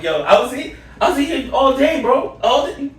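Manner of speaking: high, laughing complaint; mock outraged protest. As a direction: whine about losing a day.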